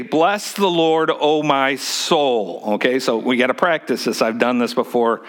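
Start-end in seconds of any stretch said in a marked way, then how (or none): 0.0-2.6 modeling the line. Shown as a demonstration. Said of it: "you're gonna just simply say".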